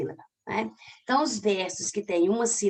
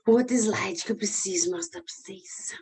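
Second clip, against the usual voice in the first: whispered aside. Real, not acted. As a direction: whisper to herself while searching. Muttering while searching slides.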